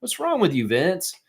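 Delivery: high-pitched mock outrage at a teammate; mock outraged yell. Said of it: "And I was like".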